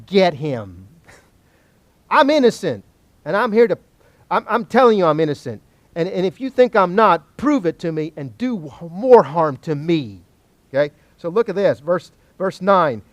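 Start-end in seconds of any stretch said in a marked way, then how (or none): 2.1-10.2 insistent, mildly raised protest of innocence; defiant dare. Acted. Job daring God to get him, insistent defiant protest. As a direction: plead your case as a challenge. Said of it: "he's daring God to".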